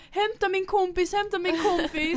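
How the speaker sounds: high, loud pleading mock cry; half-playing her own tearful plea; mock wail. Girl retelling begging host to fetch her friend, mock cry. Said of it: "och jag bara".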